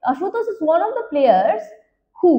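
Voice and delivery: slow, word by word question read; slow dictation. Shown as a demonstration. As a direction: read the question slowly to the class. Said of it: "এখানে বলছে". (ধীরে প্রশ্ন পড়ে শোনানো)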